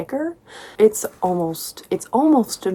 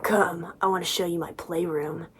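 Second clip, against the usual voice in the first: mock seductive murmur; 6 dB quieter than usual. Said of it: "He's like".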